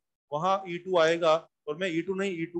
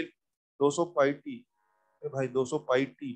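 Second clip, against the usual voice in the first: slow, word by word, lower; slow dictation; 5 semitones lower, much slower than usual. Shown as a demonstration. Teacher reading the question slowly to students. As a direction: spell it out slowly for the class. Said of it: "मैं धीरे धीरे language बोलता हूँ".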